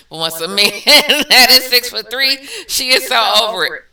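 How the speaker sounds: reading through laughter; words breaking into laughs; laughing. Real, not acted. Laughing while reading comment.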